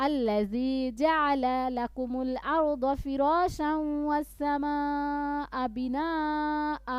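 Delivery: slow melodic recitation; Quran recitation. Shown as a demonstration. Teacher reciting the next verse. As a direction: draw the verse out.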